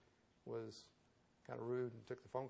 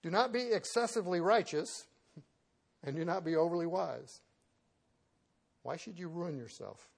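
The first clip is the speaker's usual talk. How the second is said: loud, declaiming the verse; loud scripture reading; 4 semitones higher, 6 dB louder than usual. Acted. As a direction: proclaim the verse with force.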